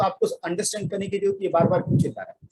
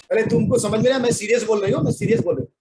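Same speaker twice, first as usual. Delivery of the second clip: teasing mock seriousness; 2 semitones higher, faster than usual. Shown as a demonstration. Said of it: "आप मजाक कर रहे हो".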